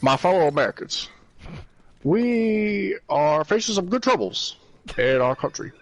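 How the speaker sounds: measured pauses like a president; Obama impression voice. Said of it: "an Obama thing to attempt to say".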